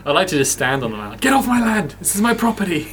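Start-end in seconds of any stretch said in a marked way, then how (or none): 1.2-2.9 grumpy landowner. Pretend. Pretend landowner chasing people.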